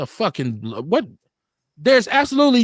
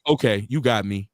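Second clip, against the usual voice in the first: lower, meek give-up; hammed-up caught criminal; mock surrender; 10 semitones lower than usual. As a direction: play a crook meekly surrendering. Acting out a criminal giving up.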